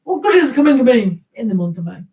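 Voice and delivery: fast, mildly indignant demo; mock shouted question. Shown as a demonstration. Demonstrating an English saying, mildly shouted. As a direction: rattle it off as a mock demand. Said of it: "we speak like this".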